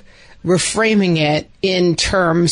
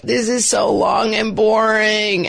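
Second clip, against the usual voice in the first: slow, drawn-out whiny shout; kid's whiny complaint; 3 semitones higher, slower than usual.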